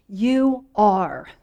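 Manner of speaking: firm falling "You are."; emphatic statement. Shown as a demonstration. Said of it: "It's an emphatic statement".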